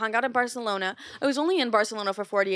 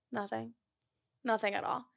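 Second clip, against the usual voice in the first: much softer, sulky denial; sulky nothing; 8 dB quieter than usual. Retold or imitated. Answering her mom's "what's wrong" while sulking, quiet. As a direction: mumble it like you're hiding hurt.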